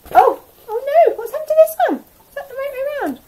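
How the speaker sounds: high, loud, hammed-up oh no; mock surprise. Teacher to nursery, faking alarm at a flipped card. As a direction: pretend shock at the upside-down card.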